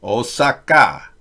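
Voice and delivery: Osaka slow and even; correct Osaka. Shown as a demonstration. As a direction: drawl Osaka flat, Japanese style. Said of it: "Instead of Osaka".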